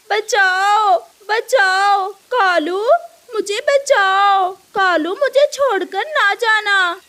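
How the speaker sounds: a trapped thief calling her partner; mock cry for help. The caught crow begs her partner not to leave, frightened.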